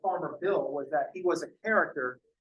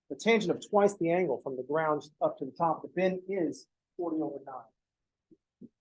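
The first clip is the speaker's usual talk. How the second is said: Farmer Bill; 4 dB quieter than usual. Acted. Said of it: "Farmer Bill".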